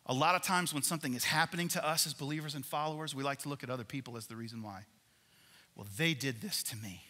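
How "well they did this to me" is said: mock childish whining about others; whiny three-year-old. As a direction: whine it like a sulky toddler. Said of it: "If I sound like a three-year-old".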